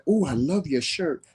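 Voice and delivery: put-on high-pitched sweet talk to a child; cooing compliment. Complimenting a little boy on his shirt, cooing. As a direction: re-enact gushing at a little one.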